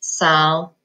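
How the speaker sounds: "Sol" said as a separate syllable; first half of solid; syllable split. Shown as a demonstration. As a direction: pause after "Sol". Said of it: "split that one right in the middle".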